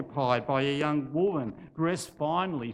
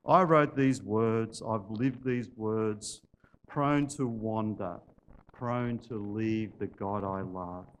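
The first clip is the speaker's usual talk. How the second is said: low, slow, understated sorrow; tearful reading; 5 semitones lower, slower than usual. Acted. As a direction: barely get the words out, slowly and low. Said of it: "he could barely read those last few lines out loud as the tears welled up".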